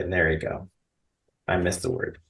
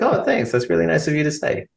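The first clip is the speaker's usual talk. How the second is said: high, gushing voice, fast at the end; mock gushing thanks; 6 semitones higher than usual. A fan's story retold with a high gushing thanks. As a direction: play the flattered celebrity, sweetly high. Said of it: "It's like".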